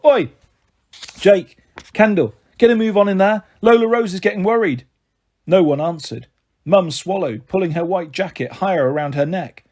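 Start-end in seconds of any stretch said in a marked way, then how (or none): 0.1-4.9 loud call into the gents. A narrator's reading. Mum shouts into the toilets, loud and impatient. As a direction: shout for them to hurry. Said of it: "she shouted through the door".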